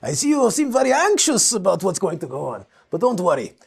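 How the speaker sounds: grandly polite, savouring each fancy word; mock-elegant gentleman ordering a beer; posh eloquent speaker. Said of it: "You're speaking like this".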